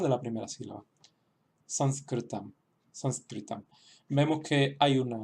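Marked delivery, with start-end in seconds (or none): 1.6-3.6 "Sanskritam" with a nasal first vowel and rolled r; sanskrit word. Shown as a demonstration. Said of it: "las voy a repetir dos veces". ("Sanskritam" con la primera vocal nasalizada)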